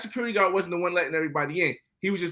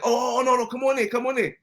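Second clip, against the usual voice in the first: eager welcome; 6 semitones higher than usual. Retold or imitated. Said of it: "he's like".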